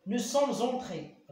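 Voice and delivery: slow, loud and high, entré stretched; teacher stressing a model sentence; emphasized example. Shown as a demonstration. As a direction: hold each word of "Il est entré" out for the class. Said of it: "ردوا البال هنايا".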